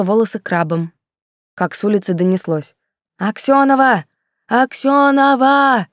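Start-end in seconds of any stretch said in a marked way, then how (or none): 3.2-5.9 put-on loud, high, drawn-out drunken yell of a name. Drunk Styopnov yelling for Aksyonova under the windows, drawn-out bellow. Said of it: "Чёртов Степнов орал под окнами".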